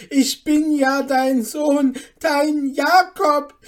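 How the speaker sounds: high, very loud scornful quoting; outraged mocking shout. A narrator's reading. Mother quoting the impostor to neighbours, outraged mocking shout. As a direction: throw their words back in outrage. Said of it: "rief Hanne ihrer Nachbarin zu".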